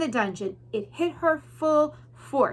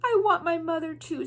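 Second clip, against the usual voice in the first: soft; 6 semitones higher than usual. Acted. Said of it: "said the princess softly".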